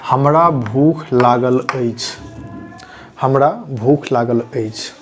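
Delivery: hamra bhukh lagal achhi said slowly, word by word; slow model sentence. Shown as a demonstration. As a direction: spell it out slowly for learners. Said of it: "अगर आपको भूख लगी हो तो आप इस sentence का use कर सकते".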